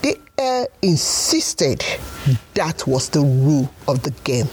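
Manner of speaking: put-on lively storybook narration for kids; story narration. A narrator's reading. Storyteller reading to children, bright and lively. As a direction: tell it like a bedtime tale.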